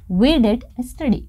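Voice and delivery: slow, stressed "did" in we did study; emphatic did. Shown as a demonstration. Teacher modelling emphasis for students, slow stressed did. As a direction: lean on did, unhurried. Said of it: "हम पढ़ाई करते तो थे".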